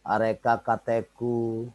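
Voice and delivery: "Areca catechu" as a-re-ka ka-te-ku; contoh pelafalan Latin. Shown as a demonstration. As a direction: model "Areca catechu" with every c as k. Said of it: "Itu bacanya areca". (ucapkan "Areca catechu" dengan bunyi k)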